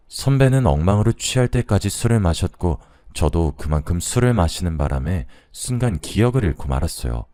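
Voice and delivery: plain reading voice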